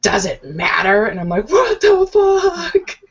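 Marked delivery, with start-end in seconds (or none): 0.0-1.0 drawn-out imitation of his answer; slow mock-serious question; imitated slow reply. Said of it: "he's real quiet for, like, a good bit of time". 1.5-3.0 high, drawn-out squeal of disbelief; very slow, squeaky retold reaction; stifled laughter. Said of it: "trying not to laugh".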